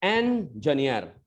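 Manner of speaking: "एन जनियर" slowly as en-juh-niyar; corrected pronunciation. Shown as a demonstration. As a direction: say "एन जनियर" without any jin. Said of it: "जिन नहीं लगाना है".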